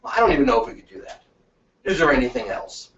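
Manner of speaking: quick, doubtful hedge; fast offhand doubt, playing hard to get; feigned reluctance. Shown as a demonstration. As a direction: act unsure you can do it. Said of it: "but I'm gonna go".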